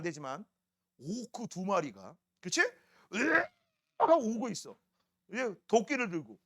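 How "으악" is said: short higher-pitched "ugh" of shock; mock startled yelp. Storyteller meeting two orcs on the road, mock yelp. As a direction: play-act a fright.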